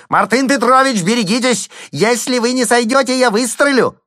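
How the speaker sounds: very high, loud shrieked warning; frantic shout. A narrator's reading. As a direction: scream the warning up at the roof. Slotkin threatens to shoot.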